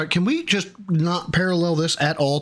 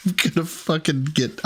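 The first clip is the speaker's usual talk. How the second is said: exasperated laugh; 2 semitones higher than usual. Real, not acted.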